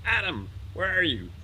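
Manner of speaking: God hollering across the garden, high and stretched; yelling. Acted. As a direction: call out for someone hiding. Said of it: "he's looking around and he yells".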